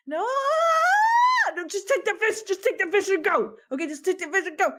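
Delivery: a high, pushy, urgent plea; desperate Ace. Acted. Ace pushes the fish on the kid, high and desperate. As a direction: shove the fish at him, desperate.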